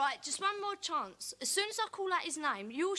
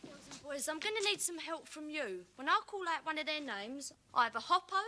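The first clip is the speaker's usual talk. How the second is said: normal talking voice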